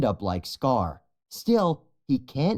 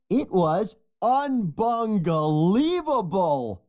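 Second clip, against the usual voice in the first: unbungalievable; 8 semitones higher than usual. A narrator's reading. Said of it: "Bunga laughs".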